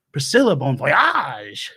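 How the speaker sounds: put-on drawn-out, slipped-in Australian accent. Host naming a guest, accidental Australian accent. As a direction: stretch the name with an Australian twang. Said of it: "that was an Australian accent".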